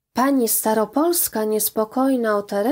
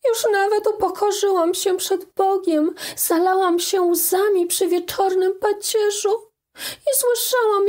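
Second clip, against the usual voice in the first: put-on pleading young girl; 8 semitones higher than usual. A narrator's reading. Daughter begging her mother's forgiveness, tearful high plea. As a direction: beg with everything you have. Teresia answers mother, crying.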